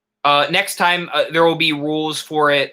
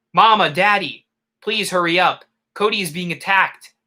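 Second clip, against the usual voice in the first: raised-pitch cry for help, lightly acted; mock scream for help; 3 semitones higher than usual. Sister calling her parents as the dog attacks, lightly acted scream. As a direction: call for the parents without really screaming. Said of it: "ran screaming".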